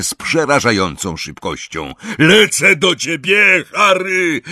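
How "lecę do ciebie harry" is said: high, loud shout from afar; big high-pitched rescuer's holler; calling out. A narrator's reading. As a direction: yell urgently across the distance. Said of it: "Dobiegł go z ciemności głos Hagrida".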